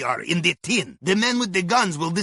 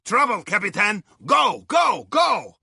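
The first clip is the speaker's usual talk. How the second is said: sudden warning shout climbing in pitch; urgent shout; 3 semitones higher, slower than usual. Acted. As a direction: yell at him to get moving. Alarm, urging captain to flee.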